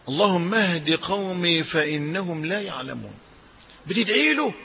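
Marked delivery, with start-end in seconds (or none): 0.1-3.1 tender prayer. Acted. Quoting Prophet's prayer softly.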